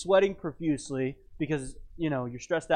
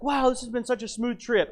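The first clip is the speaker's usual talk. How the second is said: imitating his wife; 7 semitones higher than usual. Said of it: "my wife's like".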